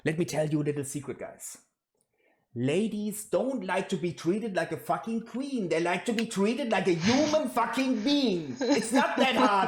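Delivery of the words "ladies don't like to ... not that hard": exasperated, higher-pitched rant; pissed off. Real, not acted. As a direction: get worked up and lay it out, pitch climbing. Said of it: "it's fucking pissing me off".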